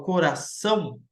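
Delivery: "coração" with the weight on the last syllable, "ção"; stress on final syllable. Shown as a demonstration. Teacher showing the class where the accent falls, final-syllable stress on "coração". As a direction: lean on the "ção" at the end of "coração". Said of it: "o mais forte é o são".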